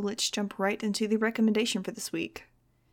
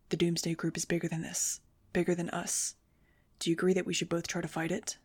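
ragged; 2 semitones lower, 3 dB quieter than usual. Acted. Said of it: "His voice was a little ragged now, but calmer".

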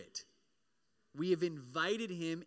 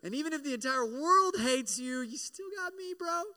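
God comforting; 9 semitones higher, 4 dB louder than usual. Retold or imitated. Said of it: "It's like".

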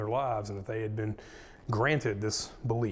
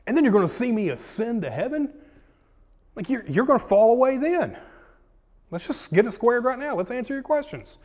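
building higher and more urgent, line by line; earnest pleading Jesus; 7 semitones higher, 4 dB louder than usual. Acted. Jesus urging departing disciples to stay and talk. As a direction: press harder and higher with each question.

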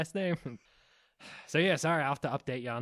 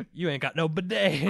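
mock chef yell; 5 semitones higher, 9 dB louder than usual. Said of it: "Chef Ramsay".

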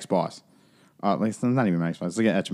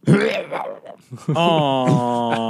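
imitated retching; 3 semitones higher than usual. Imitates the vomiting noise heard.

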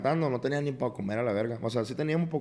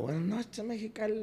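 high, soft mock concert greeting; imitated singer's hello from the stage; 9 semitones higher, 8 dB quieter than usual. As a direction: greet the crowd in a small, raised voice. Acts out greeting the concert crowd.

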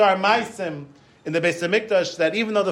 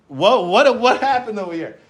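louder, high-pitched mock bewilderment; acted astonishment; 6 semitones higher, 5 dB louder than usual. Rabbi asking what went wrong with the visitor, astonished. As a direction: demand an explanation, baffled.

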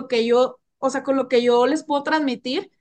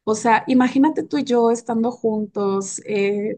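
sensual voice; 4 semitones lower than usual. Shown as a demonstration. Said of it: "con un tono más erótico, más sensual".

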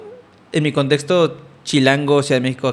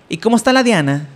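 put-on Sinaloa accent; 4 semitones higher than usual. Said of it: "acento aquí".

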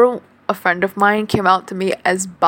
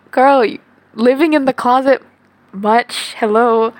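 sassy; 3 semitones higher, 4 dB louder than usual. Acted. Teasing her younger self.

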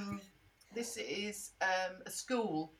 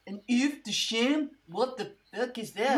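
louder startled question; shocked disbelief; 2 semitones higher, 4 dB louder than usual. Acted. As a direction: react in horrified disbelief. Chef shocked by dog egg.

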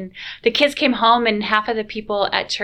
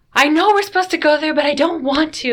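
imitating a crying daughter; 8 semitones higher, 8 dB louder than usual. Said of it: "she was just crying".

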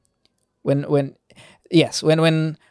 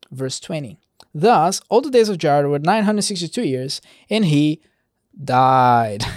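measured verse-by-verse Bible reading; scripture reading. Acted. Preacher reading Genesis genealogy to listeners, measured scripture reading. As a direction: read the genealogy aloud, deliberate on each closing phrase.

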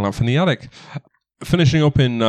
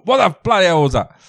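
startled mayor; 5 semitones higher, faster than usual. Acted. Mayor reacts to smashed window.

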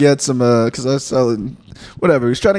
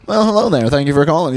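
sweet polite phone voice; customer service voice. Shown as a demonstration. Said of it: "So my phone voice".

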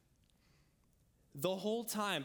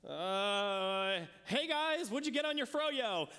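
much higher, put-on breezy voice; awkward casual opener; 4 semitones higher, much slower than usual. Preacher imitating his awkward hello to strangers, high breezy voice. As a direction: play it over-casual to hide the nerves.

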